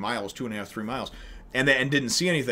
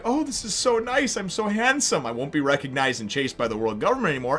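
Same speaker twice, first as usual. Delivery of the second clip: much higher, louder, preening dandy voice; vain pretty boy; 7 semitones higher, 4 dB louder than usual. Retold or imitated. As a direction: show off as a smug beauty. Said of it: "he's just like".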